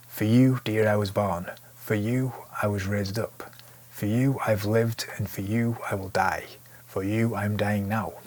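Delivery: recited lyric. Shown as a demonstration. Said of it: "a band".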